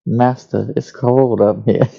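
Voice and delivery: slow robot voice, lightly done. Shown as a demonstration. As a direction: speak it slowly like a robot. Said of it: "robot voices are like this".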